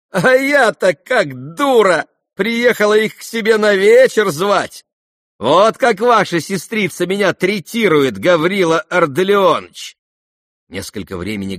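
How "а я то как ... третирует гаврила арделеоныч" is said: mock offended. A narrator's reading. Nastasya mocking offended guest.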